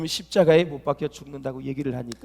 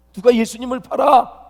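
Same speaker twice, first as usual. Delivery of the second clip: louder, higher startled question; acted astonishment; 5 semitones higher, 5 dB louder than usual. Preacher voices disciples hearing of a betrayal, acted astonishment. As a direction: ask it as if taken aback. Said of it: "놀랬어요".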